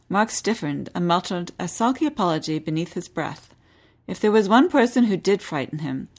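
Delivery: measured read-aloud novel narration; lively historical novel narration; story narration. Acted. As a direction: read the chapter like an audiobook. Host reads novel excerpt aloud.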